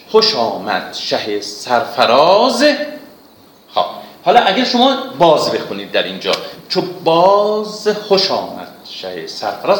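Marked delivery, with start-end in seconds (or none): 0.1-2.6 reciting verse. Shown as a demonstration. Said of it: "توجه کنیم به این بیت". 6.7-9.8 چو باز with باز given kasre, wrong for the metre; metre broken. Shown as a demonstration.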